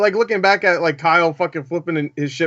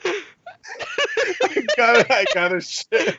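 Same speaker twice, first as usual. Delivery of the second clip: put-on old man voice; 9 semitones higher, much slower than usual. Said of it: "the old man voice".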